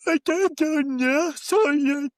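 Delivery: high, slow, hammed-up bad Eastern European accent; bad vague European accent. Imitating the bald neighbor carrot from the episode in a bad vague European accent. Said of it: "it was a really bad, like, pretending to be northern sort of accent".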